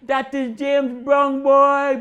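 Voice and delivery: high, loud, drawn-out cheer; excited crowd cheer. Retold or imitated. People in the crowd cheering Silky Sam, high excited cry. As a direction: hail him like a star.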